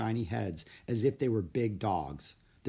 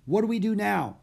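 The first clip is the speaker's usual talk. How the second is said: put-on high questioning boy; young Jack asking; boy's voice; 10 semitones higher, 6 dB louder than usual. Jack's voice in story.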